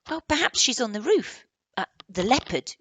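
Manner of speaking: put-on high, loud boyish guess; Barney's voice. Barney guesses the leopard is on the roof, high and loud. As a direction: voice Barney catching himself. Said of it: "said Barney".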